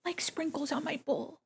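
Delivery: excited hushed whisper. Real, not acted. Drawing sprinkles, whispering to herself. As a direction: whisper it with delight.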